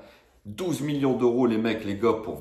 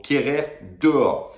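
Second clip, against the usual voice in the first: emphatic verdict; 5 semitones higher, 3 dB louder, slower than usual. Real, not acted. Verdict du fan énervé.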